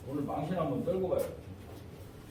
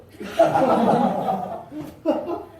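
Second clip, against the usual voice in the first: loud burst of laughter; 6 semitones higher, 6 dB louder than usual. Real, not acted.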